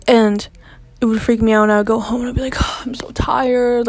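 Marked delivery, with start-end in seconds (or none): 2.6-3.9 tired whisper. Retold or imitated. Exhausted after school, telling family.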